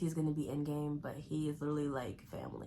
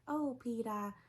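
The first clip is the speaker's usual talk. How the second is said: Lois impression; 7 semitones higher, slower than usual. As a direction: sigh his name like a lovesick cartoon mom. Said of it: "how she's always like".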